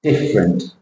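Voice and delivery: different, big DIFF and little rent, falling; low different, weight on the first beat; big-then-small word shape. Shown as a demonstration. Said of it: "big square followed by a little square".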